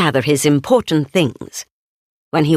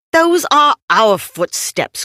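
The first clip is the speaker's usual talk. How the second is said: cried out; 7 semitones higher than usual. Acted. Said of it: "Christopher Robin cried".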